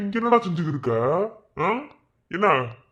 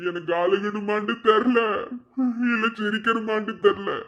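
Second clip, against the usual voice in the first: weepy. Acted. Drunk man weeping over lost love.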